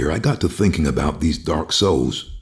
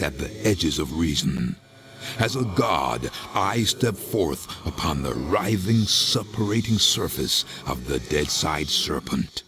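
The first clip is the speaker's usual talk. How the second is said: slow, softer incantation of a dark lord; portentous monologue; 4 dB quieter than usual. Acted. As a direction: declaim like a god surveying the underworld. Grandiose monologue as Deadside's lord.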